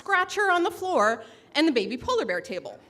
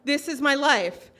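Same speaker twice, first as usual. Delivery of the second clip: loud, higher half-laughing panic; mock panic; 3 semitones higher, 6 dB louder than usual. Divorced narrator realizing what she's doing, comic panic. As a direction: spiral into comic dread. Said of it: "the panic sets in".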